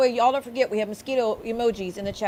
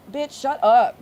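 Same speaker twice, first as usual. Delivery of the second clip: angry; 3 semitones higher, 7 dB louder, slower than usual. Real, not acted. Telling off the rival.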